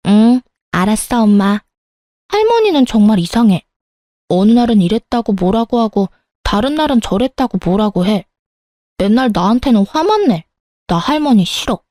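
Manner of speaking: lightly voiced child, airing a grievance; a little girl grumbling to her mum about grandma; complaining young daughter. (투덜대는 어린 딸 목소리)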